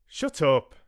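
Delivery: loud, high-pitched shout; shouted command. A narrator's reading. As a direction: shout it sharply to silence the din. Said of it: "I shouted".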